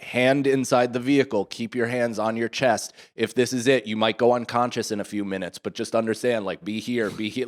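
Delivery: talking himself through it calmly; calm self-talk. Retold or imitated. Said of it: "I'm literally talking my way through this".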